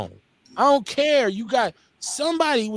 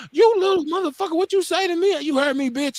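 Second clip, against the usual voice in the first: high-pitched imitated outrage; heated, high retold quarrel; outraged confrontation; 12 semitones higher than usual. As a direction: go off like an affronted woman. Retold quarrel with name-calling woman.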